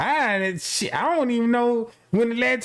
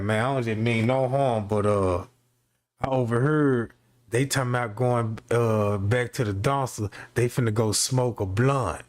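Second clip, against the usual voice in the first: low, hushed snitching coworker voice; a lightly voiced low sneaky snitch; 9 semitones lower than usual. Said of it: "here come this dude coming in like".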